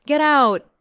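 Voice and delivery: sharp high shout; alarmed, forceful yell. A narrator's reading. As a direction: shout it loud and high, ordering someone out. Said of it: "I shout".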